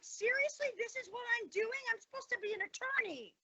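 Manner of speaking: sarcastic disbelief. Retold or imitated. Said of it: "I was like".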